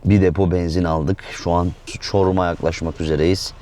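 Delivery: talking while chewing gum. Real, not acted. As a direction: chew gum as you talk. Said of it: "Bu arada sakız çiğniyorum".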